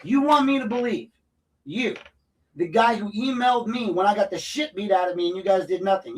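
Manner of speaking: high-pitched, indignant disbelief; incredulous outrage. Real, not acted. Resident challenging the man who once apologized, incredulous outrage.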